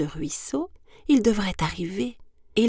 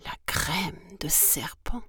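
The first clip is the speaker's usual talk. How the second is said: hushed, quavering question; frightened snake echoing the words; alarmed echo; 5 dB quieter than usual. Acted. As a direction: repeat it softly in dismay, voice rising.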